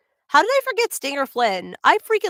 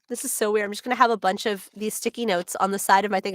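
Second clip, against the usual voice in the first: ordinary talk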